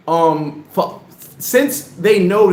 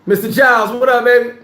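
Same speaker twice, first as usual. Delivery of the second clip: loud, high hype shout-out; hyped greeting; 5 semitones higher, 4 dB louder than usual. Real, not acted. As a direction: greet him like a hype man.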